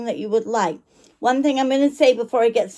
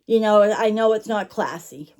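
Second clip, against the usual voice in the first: talking while chewing gum; words around a wad of gum. Real, not acted. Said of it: "forgive me for my gum chewing".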